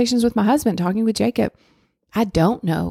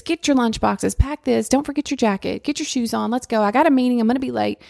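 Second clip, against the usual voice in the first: retold yelling at kids; 5 semitones higher than usual. Mom hurrying her kids out the door, a mild mock yell. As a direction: rattle off orders like a rushed mom. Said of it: "I'm yelling at the kids".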